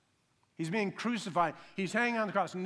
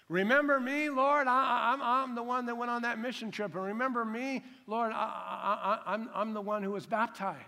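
higher, pushy bragging to God; mock self-righteous plea; 5 semitones higher, 3 dB louder than usual. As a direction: list your good deeds, eager and insistent. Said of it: "didn't plead his goodness".

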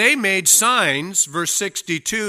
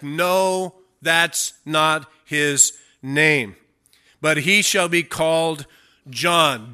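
slow, louder, every word weighted; emphatic mother; 5 dB louder, slower than usual. Acted. Elizabeth insisting to relatives on naming him John, emphatic and slow. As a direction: plant your feet and insist. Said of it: "she was really emphatic".

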